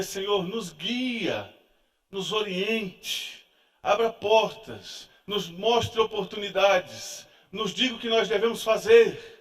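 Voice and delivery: slow, pleading prayer to the Lord. Retold or imitated. Kneeling with his family, asking God for guidance, slow prayer. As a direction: pray it slowly, as on your knees. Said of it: "me ajoelhar... e dizer".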